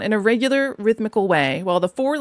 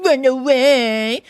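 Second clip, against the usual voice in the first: louder, slow, firm command; curt sergeant; 4 semitones higher, 5 dB louder, much slower than usual. A narrator's reading. Sergeant dismissing the washerwoman, curt. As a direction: shoo her off with force. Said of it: "said to me very short".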